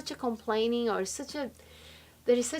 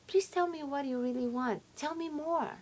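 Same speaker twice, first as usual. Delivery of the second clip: soft, slightly raised, coaxing request; gentle invitation; 4 semitones higher, 6 dB quieter than usual. Acted. Man answering his nagging partner, softly receptive. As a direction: gently draw out what she wants. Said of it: "if she start nagging, say".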